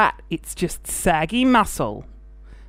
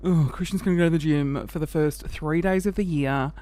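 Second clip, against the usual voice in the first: mocking; 3 semitones lower than usual. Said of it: "before you go".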